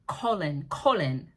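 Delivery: KOH-lin, long O, falling tone; Colin said their way. Shown as a demonstration. Vlogger showing how they say the character's name, KOH-lin demo. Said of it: "That's how they say it".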